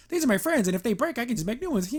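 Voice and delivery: a hint of a cheerfully careless scientist; silly Entrapta. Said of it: "she's just being silly again".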